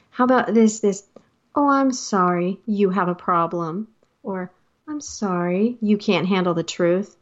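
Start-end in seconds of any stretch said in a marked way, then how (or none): 1.5-3.9 mock-apologetic, mild dig on the tail; backhanded apology. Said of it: "apologize in a very backhanded way". 4.9-7.2 mildly mocking fake sorry; backhanded apology. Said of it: "apologize in a very backhanded way".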